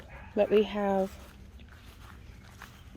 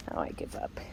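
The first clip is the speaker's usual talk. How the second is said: low soft whisper of defeat; whispered surrender; 12 dB quieter than usual. Real, not acted. To herself about the dog, a low whispered sigh of defeat. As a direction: breathe it out, beaten.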